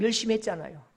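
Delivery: understated, wounded protest; subdued plea to God. Acted. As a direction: plead with God in a contained voice. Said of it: "하나님 가슴을 치는 거예요".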